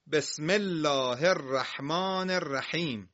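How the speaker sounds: slow, measured recitation with drawn-out vowels; Quran recitation. Shown as a demonstration. Teacher reciting the opening verse to pupils, measured recitation. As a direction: recite it slowly for learners.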